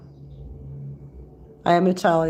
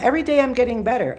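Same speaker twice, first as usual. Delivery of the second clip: upbeat affirmation; 4 semitones higher, much faster than usual. Shown as a demonstration. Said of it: "Two choices".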